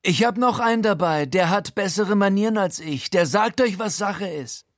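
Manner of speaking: high, raspy-free mocking crook voice; wrecked Frankie voice. A narrator's reading. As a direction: sneer it out like a battered gangster. Frankie introduces his accomplice.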